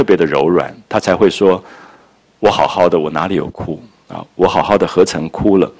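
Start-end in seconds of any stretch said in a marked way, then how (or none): 2.4-5.7 gently denying, a touch softer; soft tender reply. Acted. Daiyu softly denying her tears to Baoyu, tender. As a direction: let it come out soft and yielding. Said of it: "两个人都特别的温柔".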